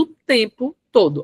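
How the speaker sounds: "o tempo todo" with each word set apart and weighted; emphatic spacing. Shown as a demonstration. Coach showing her own constant use of emphasis, emphatic spacing. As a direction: punch out "tempo" and "todo" separately with gaps. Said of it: "Acabei de usar".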